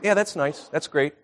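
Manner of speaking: soft, unimpressed acknowledgement; half-hearted approval. Retold or imitated. Husband answering his wife's picture texts, half-hearted. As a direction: toss off quiet, token praise.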